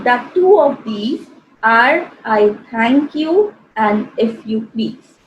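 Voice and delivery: slow, measured recital of a couplet; poem recitation. Acted. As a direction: read it out slowly like verse.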